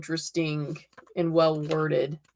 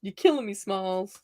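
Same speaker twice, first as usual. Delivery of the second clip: repeated lightly, trailing off softer; movie quote; 4 dB quieter than usual. Retold or imitated. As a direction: say it again, fading out. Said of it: "that's how you can tell I'm a Gen Xer".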